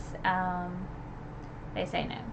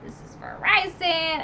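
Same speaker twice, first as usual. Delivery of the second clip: avenging Farah; 8 semitones higher than usual. Retold or imitated. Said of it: "she was like".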